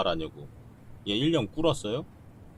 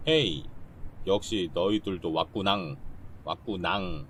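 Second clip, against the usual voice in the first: cutesy drawl. Acted. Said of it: "내가 정말 싫어하는 말투인데".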